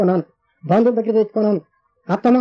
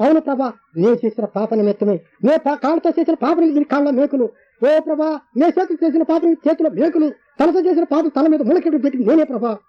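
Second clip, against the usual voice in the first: retold weeping; 6 semitones higher than usual. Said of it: "ఏడుస్తున్నాను".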